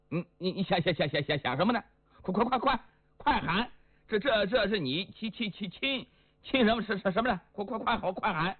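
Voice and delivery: a hint of an impatient stuttering master; stammering Li Yuanba. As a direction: stutter the command, pushing it. Li Yuanba urging Liang in a stammer.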